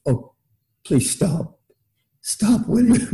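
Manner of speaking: high, whiny mock plea to make it stop; mock pleading. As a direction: beg him to stop, half joking. Monks silently begging talk to end.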